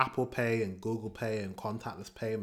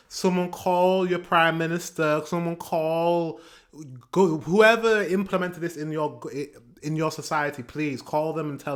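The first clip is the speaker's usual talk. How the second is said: worked-up plea; 4 semitones higher, 5 dB louder than usual. Real, not acted. Urging viewers to call officials.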